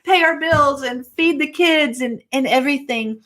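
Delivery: voiced worry, starting high and settling; mock worried panic. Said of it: "The temptation might have been like".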